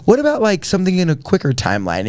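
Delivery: lightly voiced counselor changing tack; imitating the counselor. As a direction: jump up high to cover the awkward moment. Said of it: "her face just, like".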